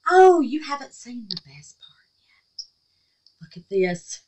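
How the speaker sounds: hushed, high whisper of a secret; excited whisper. Real, not acted. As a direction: lean in and tease in a whisper. Teasing reveal of gift.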